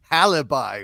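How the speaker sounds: "alibi" with an H added at the front. Shown as a demonstration. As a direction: say "alibi" as "halibi". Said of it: "alibi with an H".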